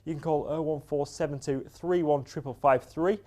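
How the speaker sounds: lifted, measured bulletin delivery; sports news read. Real, not acted. Sports reporter reading local football and boxing news, bulletin read. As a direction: read the sports headlines, each starting high and stepping down.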